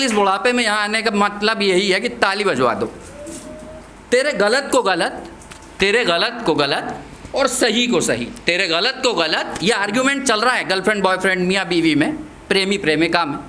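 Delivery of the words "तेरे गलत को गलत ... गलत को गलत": rhythmic verse with lifted line endings; poem recitation. Acted. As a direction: recite it in a measured beat.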